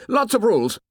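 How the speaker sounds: put-on high-pitched boyish excitement; excited cry. A narrator's reading. Jack relishes lots of rules for the boys, excited. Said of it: "he cried excitedly".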